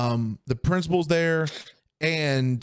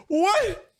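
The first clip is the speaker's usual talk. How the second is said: baffled. Retold or imitated. Baffled second grader.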